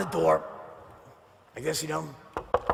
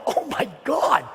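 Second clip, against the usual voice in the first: shocked exclamation; 7 semitones higher than usual. Retold or imitated. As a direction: blurt it out in disbelief. Shocked at Eddie's body language.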